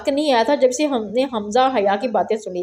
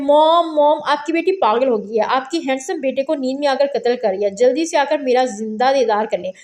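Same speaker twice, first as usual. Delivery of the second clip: mock yelling. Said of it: "Hamza चीख चीख के बोल रहा था".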